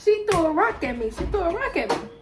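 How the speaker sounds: high, whiny imitation of a crying boy; mock crying kid. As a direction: whine it like a kid tattling through tears. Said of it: "My cousin come in crying".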